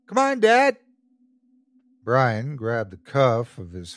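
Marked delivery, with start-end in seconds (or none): 0.1-0.8 put-on eager little boy. A narrator's reading. Eager boy tugging father.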